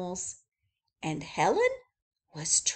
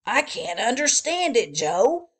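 a bit louder puzzled zookeeper; 3 semitones higher, 6 dB louder than usual. Acted. Zookeeper puzzling to Joe, louder and baffled. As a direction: play the baffled chief, voice raised. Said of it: "he said".

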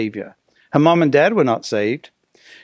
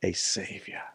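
soft, low and smiling; said softly through a smile; 8 semitones lower, 14 dB quieter than usual. Shown as a demonstration. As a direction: let a gentle smile into the hushed words. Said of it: "say it with a smile".

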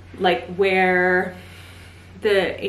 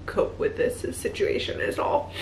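crying, worn out; 6 dB quieter, slower than usual. Real, not acted. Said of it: "can't stop crying".

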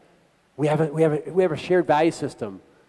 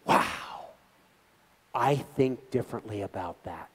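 quiet wow; 4 semitones lower, 6 dB quieter, slower than usual. Shown as a demonstration. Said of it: "I just slap my forehead and I go".

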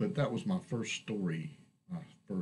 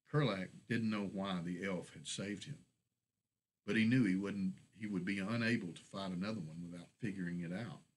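story narration. A narrator's reading. Reads own story aloud.

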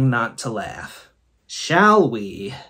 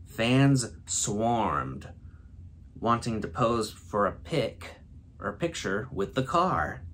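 measured storyteller read, softer than chat; story narration; 3 semitones lower, 8 dB quieter than usual. Acted. Reading a friends' Mad Lib for the first time, story narration. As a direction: read the silly story with a straight delivery.

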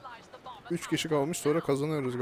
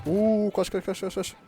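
panicked shout; 5 semitones higher, 5 dB louder, slower than usual. Real, not acted. Rocket attacker appears, fleeing.

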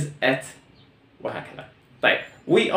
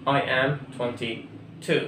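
I am twenty-two stretched out and softer; teacher dictating word by word; slow classroom repetition; very slow model; 6 dB quieter, much slower than usual. Shown as a demonstration. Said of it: "الجملة الثانية".

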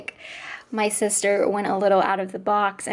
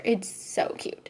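soft gush; 6 dB quieter, slower than usual. Real, not acted. Gushing softly over mom's page.

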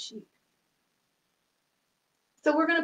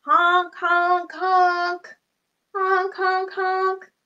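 goose honk; 7 semitones higher, 4 dB louder, much slower than usual. Pretend. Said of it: "What does a goose say".

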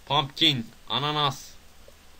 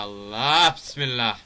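slow invocation, raised in volume; louder drawn-out exclamation; 5 dB louder, slower than usual. Real, not acted. Player alarmed at a game hazard, loud drawn-out exclamation. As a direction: stretch it out and push it louder.

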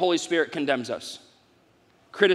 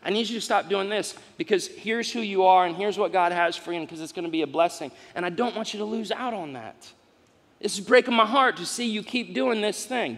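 tender parent. Retold or imitated. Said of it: "That's the tone".

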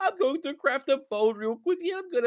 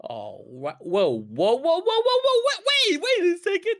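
startled whoa; 3 semitones higher, 3 dB louder than usual. Real, not acted. Startled by sea creature.

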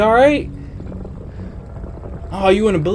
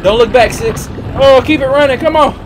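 being chased; 3 semitones higher than usual. Real, not acted.

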